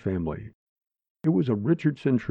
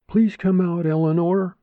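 put-on high, thin elderly plea, a bit louder; frail pleading old woman; 9 semitones higher, 4 dB louder than usual. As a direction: beg through the door like a frail old lady. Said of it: "the frail voice of an elderly Ida Eagleberry pleaded".

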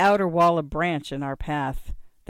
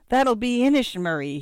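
put-on old raider, pitched up and louder; cackling old man's gleeful wheeze; wheezed; 7 semitones higher, 5 dB louder than usual. A narrator's reading. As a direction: wheeze it out with relish. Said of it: "he wheezed".

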